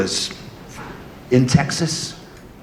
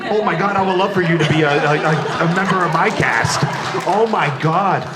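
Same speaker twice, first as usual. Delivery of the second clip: higher-pitched, stammering fan excitement; thrilled gushing; 4 semitones higher than usual. Real, not acted. Host hears the guest may join his cast, thrilled gushing. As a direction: gush as if a dream just came true.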